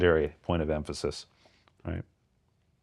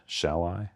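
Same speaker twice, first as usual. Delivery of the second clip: "Shall" stressed, "I" left unemphasized; 3 dB quieter than usual. Shown as a demonstration. Student echoing the first reading, "I" not emphasized. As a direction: lean on "Shall", let "I" go light. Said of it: "the I is not emphasized".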